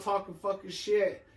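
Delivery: usual speaking voice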